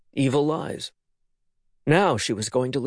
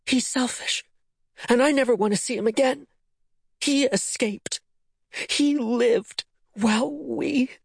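venomous; 12 semitones higher than usual. A narrator's reading. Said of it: "the venom in her daughter's voice".

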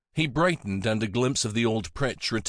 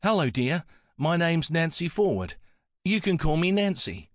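put-on higher-pitched old lady with an Antipodean lilt; soft Antipodean accent; 7 semitones higher than usual. A narrator's reading. Nancy introducing herself to a visitor, soft Antipodean accent. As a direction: speak as a friendly Antipodean woman. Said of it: "She spoke in a soft Antipodean accent".

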